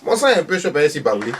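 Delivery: voix aiguë de vieille dame, posée; le dit une première fois, sans forcer; vieille maman. Acted. Dit puis redit plus fort. (Thérèse explique son sang chaud, voix aiguë)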